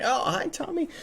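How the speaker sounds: high, soft little hello; friendly greeting. Retold or imitated. Streamer bumps into Tommy outside, acted light friendly greeting. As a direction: toss off a sweet high-pitched greeting.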